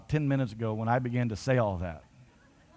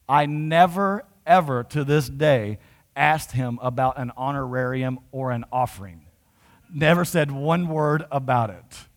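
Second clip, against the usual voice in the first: louder, slow, insistent; emphatic preaching; 5 dB louder, slower than usual. Real, not acted. Preacher to his church, insisting loudly he never asked. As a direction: drive home that he never asked.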